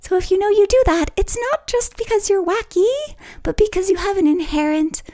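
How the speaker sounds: very high, playful sing-song voice; silly high-pitched baby-talk lilt. Shown as a demonstration. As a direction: pitch it way up as if talking to a pet. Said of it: "I was just being a little bit silly".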